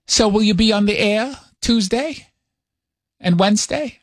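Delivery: light New York-accented mom impression; mock motherly questioning, New York accent; mother's New York accent. Mother asks son about his trip, light New York accent. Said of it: "Does your mom actually have a New York accent".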